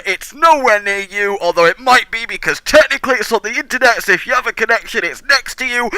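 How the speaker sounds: big booming trailer narrator; movie trailer voice. Pretend. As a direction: keep the epic trailer read going. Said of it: "I'm using trailer voice".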